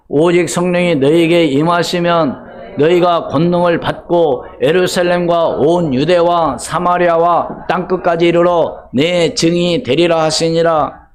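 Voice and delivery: measured congregational reading, dragging the middle; slow unison scripture recitation. Acted. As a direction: read the verse slowly and solemnly together. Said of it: "다 같이 시작".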